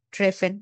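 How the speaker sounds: "ট্রেফেন" with the R clearly sounded. Shown as a demonstration. Teacher sorting German R sounds for student, R sounded. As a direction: say "ট্রেফেন" with an audible consonant R. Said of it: "আর এর মতো".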